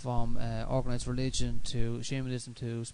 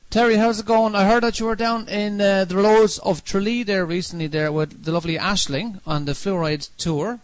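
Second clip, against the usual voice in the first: much louder, higher call-out; loud greeting; 7 semitones higher, 10 dB louder than usual. Real, not acted. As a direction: call out loudly to the caller. Host greets caller on air.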